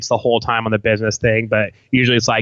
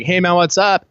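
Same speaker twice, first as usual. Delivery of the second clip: higher-pitched acted hello; casual greeting; 7 semitones higher than usual. Guest showing how you'd greet Tupac, casual high-pitched hello. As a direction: act out walking up and saying hi. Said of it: "you'd be like".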